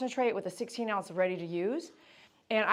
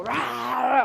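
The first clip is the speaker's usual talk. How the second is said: mock dog growl; 4 semitones higher, 8 dB louder than usual. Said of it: "To make a dog go".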